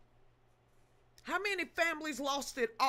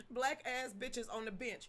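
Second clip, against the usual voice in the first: repeat quietly; 7 dB quieter than usual. Shown as a demonstration. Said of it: "Say that ten times".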